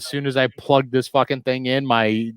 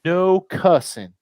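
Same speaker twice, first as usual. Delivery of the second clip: slow, drawn-out mock briefing; retold instructor; 3 semitones higher, slower than usual. Laser tag girl briefing families, slow imitated announcement. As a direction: imitate staff laying down rules, slowly. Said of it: "And she goes".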